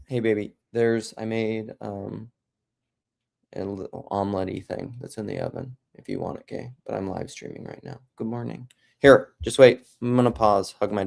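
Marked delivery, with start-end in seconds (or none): 0.1-6.7 softly to family. Real, not acted. Speaking aside to family member. 6.8-8.7 quiet aside. Real, not acted. Aside to daughter while streaming.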